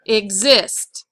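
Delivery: "exist" stressed as ig-ZIST; "exist" with a light first syllable and strong second. Shown as a demonstration. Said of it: "so the I S T is".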